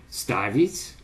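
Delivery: "ставить" stressed on its first syllable; fixed stem stress. Shown as a demonstration. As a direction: put the stress on "ста" in "ставить". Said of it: "constant stress on a fixed stem syllable".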